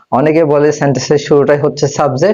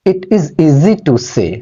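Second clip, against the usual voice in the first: slow example read; 2 semitones higher, much slower than usual. Shown as a demonstration. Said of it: "example sentence read".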